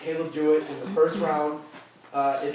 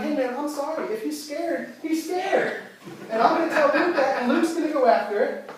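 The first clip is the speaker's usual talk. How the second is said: fired-up retort; 10 semitones higher, 3 dB louder than usual. Retold or imitated. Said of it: "I'm like".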